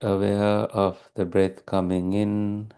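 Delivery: calm, even meditation guidance with long pauses; unhurried, steady meditation teacher delivery; guided meditation. Real, not acted. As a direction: guide listeners gently into stillness, leaving long silences.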